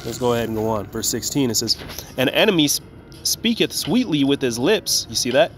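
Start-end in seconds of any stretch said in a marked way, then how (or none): 2.2-5.1 measured King James recitation; scripture reading. Acted. Reads scripture aloud.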